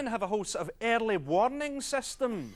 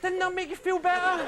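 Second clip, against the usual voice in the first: excited shout; 8 semitones higher than usual. Real, not acted. After the group howl.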